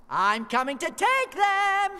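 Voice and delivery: very high, loud, fast squeaky yell; greedy yell. Acted. Rat thief yells into the cave, high and loud. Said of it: "the rat thief yelled".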